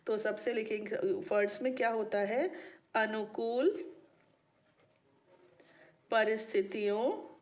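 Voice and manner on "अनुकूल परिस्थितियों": drawn-out words with long pauses; measured classroom dictation for note-taking; slow dictation. Real, not acted. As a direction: dictate slowly, word by word. Dictating the formula for writing.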